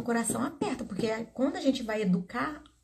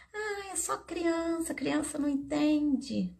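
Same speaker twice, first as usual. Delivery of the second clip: higher, slow, lightly mocking excuse; a hint of a careless parent shrugging; lightly imitating a dismissive parent; mock lenient parent; 5 semitones higher, slower than usual.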